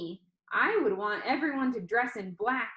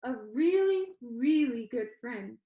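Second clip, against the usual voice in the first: sincere; 3 semitones higher, slower than usual. Acted. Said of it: "like it was covered in sincerity".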